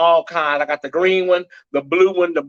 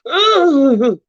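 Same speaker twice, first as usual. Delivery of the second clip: mock moan; 5 semitones higher, 3 dB louder than usual. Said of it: "the lady was going".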